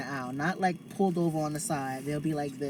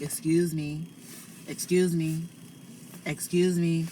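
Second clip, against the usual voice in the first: man voice. Shown as a demonstration. Pushing past blocking carts in her man voice. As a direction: say it in a firm man voice. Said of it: "my man voice".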